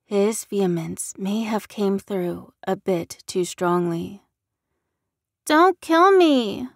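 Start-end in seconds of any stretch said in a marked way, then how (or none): 5.5-6.7 put-on high, slow, loud frightened child's plea; little girl crying. A narrator's reading. Frightened girl in David's arms, high tearful plea. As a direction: beg for your life like a terrified small girl. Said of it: "the girl cried in his arms".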